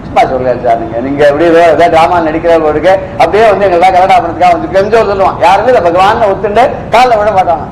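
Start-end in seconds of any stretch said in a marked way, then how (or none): 0.1-5.4 lower-pitched voice of a mild sceptic; doubting man. Acted. A man doubting God has really come, lightly acted disbelief. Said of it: "ஒருத்தன்".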